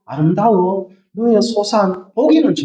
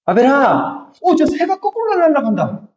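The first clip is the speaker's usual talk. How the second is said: sly Cain; 6 semitones higher than usual. Retold or imitated. Cain tricking Abel.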